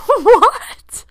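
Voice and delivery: mom's shocked what. Retold or imitated. Mom hearing the heaven story, shocked and high. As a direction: squeak it out, floored. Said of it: "And she was like".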